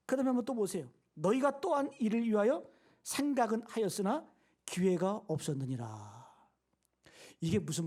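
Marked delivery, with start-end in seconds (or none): 1.2-6.2 scripture reading. Real, not acted. Pastor showing the congregation the next verse, slow scripture reading.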